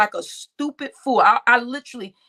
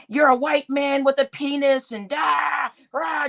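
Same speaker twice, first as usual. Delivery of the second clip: mock screaming; 3 semitones higher than usual. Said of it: "just kept screaming and acting crazy".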